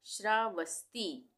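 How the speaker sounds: श्रावस्ती said slowly to close; slow model word. Shown as a demonstration. (श्रावस्ती धीरे)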